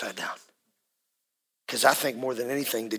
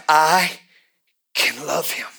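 whispered turn; 3 semitones higher, 7 dB louder, slower than usual. Retold or imitated. Preacher whispering the mother's changed words to the congregation. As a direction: breathe the words out like a tender discovery.

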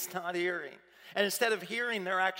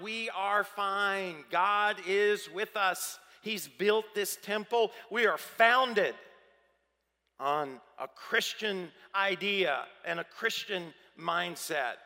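insistent crowd; 4 dB louder, slower than usual. Retold or imitated. People insisting they are safe.

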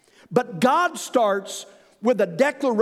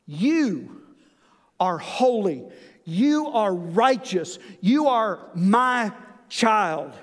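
God gently telling a believer they are loved; tender voice of God; 2 semitones lower than usual. Acted. God speaking to his child.

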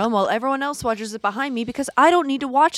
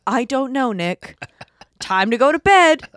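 mock dismissive reply; 2 semitones higher, 5 dB louder than usual. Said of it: "And I'm like".

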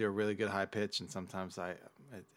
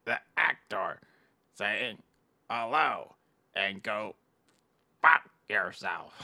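Eric the actor impression; 3 dB louder, slower than usual. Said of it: "This is Eric, the actor".

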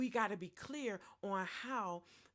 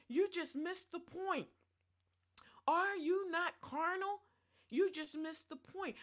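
rebuking; 8 semitones higher than usual. Acted. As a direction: scold them, ringing and high. Paul rebuking the church.

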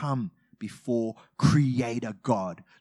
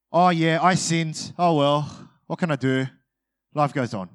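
matter-of-fact; 4 dB louder than usual. Retold or imitated. Sinner confessing to God, breezy and careless. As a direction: toss it off like nothing happened. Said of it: "matter-of-fact kind of way".

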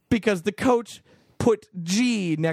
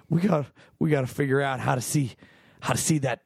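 lightly voiced George Bush, a bit lower; a hint of a folksy Texan president; George Bush impression; 3 semitones lower than usual. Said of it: "that's my George Bush impression".

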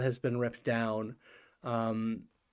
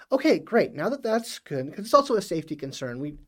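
high AI voice; 4 semitones higher than usual. Acted. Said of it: "And she says".

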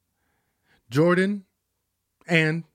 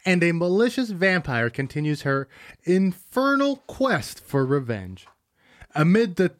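lightly voiced dramatic trailer read; a hint of an epic movie trailer narrator; 2 semitones higher than usual. Friend reading the Twilight synopsis like a trailer. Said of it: "in the voices that you do it in".

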